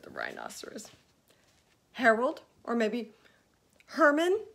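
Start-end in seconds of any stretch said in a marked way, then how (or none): 1.9-4.4 eager guessing. Acted. Fluffy guessing names eagerly.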